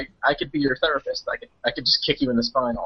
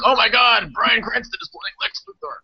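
mock excitement; 8 semitones higher than usual. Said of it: "every internet site was like".

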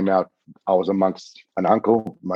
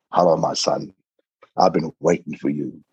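a low, gentle hint of an elder; lightly voiced old woman; 4 semitones lower than usual. Lakota elder greets the visitor as son, lightly voiced and low. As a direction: lightly suggest a welcoming old mother, voice lowered. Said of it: "this old eighty-year-old Native American woman".

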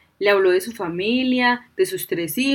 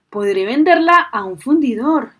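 louder, higher, eager exclaim; excited exclaim; 4 semitones higher, 7 dB louder than usual. A narrator's reading. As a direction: blurt out the lucky idea. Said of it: "exclamó".

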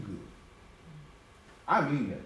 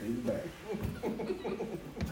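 slow laughing drawl; 3 semitones higher, 10 dB quieter, much slower than usual. Shown as a demonstration. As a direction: stretch it out while laughing. Repeats line, second take drawn out.

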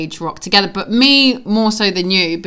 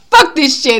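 retold defiance; 5 semitones higher, 5 dB louder than usual. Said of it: "she looked at me like".

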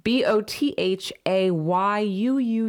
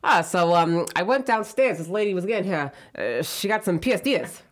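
put-on Rhode Island accent. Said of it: "It sounds just like, if you really say it fast".

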